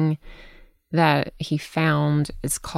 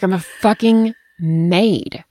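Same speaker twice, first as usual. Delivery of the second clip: louder, higher, slow exasperated emphasis; fed-up outburst; 4 semitones higher, 5 dB louder, slower than usual. Retold or imitated. Mother retells realising she cleans for everyone, emphatically exasperated. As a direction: hammer it out in exasperation.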